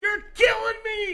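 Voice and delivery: high, loud yell of "You're killing me!"; boisterous mock-agonized yell from a foot and a half back. Shown as a demonstration. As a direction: belt it out for effect across the room. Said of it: "Say something loud and boisterous".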